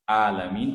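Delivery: 'Alamin' with an open vowel a; plain a, no ain. Shown as a demonstration. Teacher repeating the mistaken word, plain a. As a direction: start 'Alamin' without throat squeeze. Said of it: "tapi begini, a".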